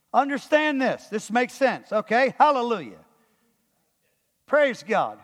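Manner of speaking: upbeat, assured proclamation; confident reading. Shown as a demonstration. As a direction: read it as good news, with certainty. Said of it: "Here's how we ought to read it".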